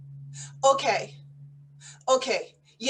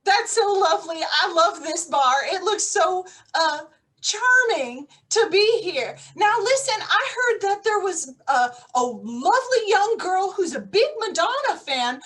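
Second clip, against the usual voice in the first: spy in disguise insisting she is a pop star; posing as a pop star; 2 semitones higher than usual. Pretend. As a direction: sell the fake pop star persona.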